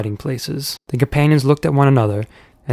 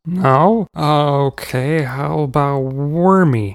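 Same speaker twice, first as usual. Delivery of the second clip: cheeky; 2 semitones higher, much slower than usual. A narrator's reading. Uncle's cheeky joke.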